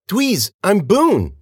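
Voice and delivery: high, slow, drawn-out plea; desperate insistence. A narrator's reading. Girl tells friend who she is, desperate.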